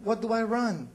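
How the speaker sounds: timid little man voice; soft, hesitant question; quiet. Retold or imitated. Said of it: "a little Jewish man says".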